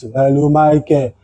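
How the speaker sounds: slow, drawn-out imitation of a greeting; imitating housemate's greeting. Housemate calling at ten thirty, slow imitated drawl. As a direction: stretch the name out, mimicking him. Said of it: "that is way he speaks".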